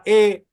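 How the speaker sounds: "E" as an open vowel, pushed slightly. Shown as a demonstration. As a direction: say "E" with an open mouth. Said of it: "es una E abierta". ("E" abierta, bien marcada)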